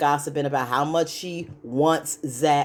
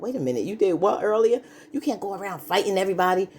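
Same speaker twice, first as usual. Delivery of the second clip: quick, higher mock outrage at her fighting; mock disbelief; 4 semitones higher, faster than usual. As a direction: rattle it off fast, a retold "you did what?". Zach confronting Fatima, retold.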